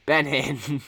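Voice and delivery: Benin said emphatically as BEN-in; short i at the end of Benin. Shown as a demonstration. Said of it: "not Benin".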